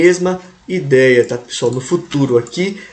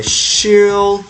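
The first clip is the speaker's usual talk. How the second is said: slow dictation; much slower than usual. Shown as a demonstration. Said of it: "né".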